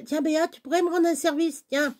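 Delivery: butter her up for a favour; wheedling friend. Retold or imitated. Imite un ami qui demande service. (imitant l'ami mielleux qui demande un service)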